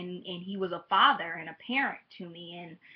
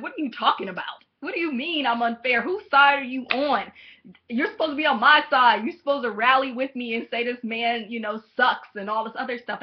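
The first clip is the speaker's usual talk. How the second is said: louder, higher, outraged disbelief; indignant protest; 4 semitones higher, 7 dB louder than usual. Retold or imitated. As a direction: bristle at dad for not taking your side. Outraged reply to her father.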